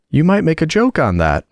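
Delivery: small high voice, making a sly suggestion; extremely small voice. A narrator's reading. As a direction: squeak it like a little insect at her ear. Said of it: "said the little voice close to her ear".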